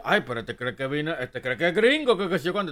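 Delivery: exaggerated gossipy jeer; mocking critic. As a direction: imitate people sneering at someone acting gringo. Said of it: "te van a decir".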